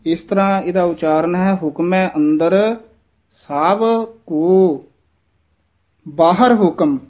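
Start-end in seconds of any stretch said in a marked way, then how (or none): 1.6-7.0 slow, pause after ਸਭ ਕੋ, and after ਹੁਕਮ; measured pauses in the verse; pause before ਬਾਹਰ. Shown as a demonstration. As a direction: break the line at ਸਭ ਕੋ and ਬਾਹਰ ਹੁਕਮ. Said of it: "ਇੱਥੇ ਥੋੜ੍ਹਾ ਜਿਹਾ ਠਹਿਰਾ ਦੇਣਾ".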